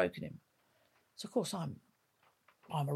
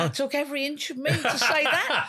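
laughing through the words, louder; laughing while talking; 7 semitones higher, 5 dB louder than usual. Real, not acted. Telling the podcast host she couldn't repeat the radio call, laughing. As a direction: let the laugh spill over the line.

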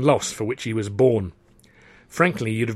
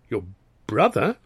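puzzled. Acted. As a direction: play innocent, query the word. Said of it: "as people do when puzzled".

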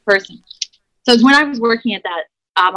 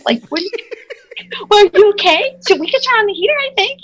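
higher, hesitant questioning, mildly mocking herself; awkwardly solicitous, pitched up; retold naive concern; 10 semitones higher than usual. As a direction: imitate your own clueless, timid politeness. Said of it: "You know, so stupid".

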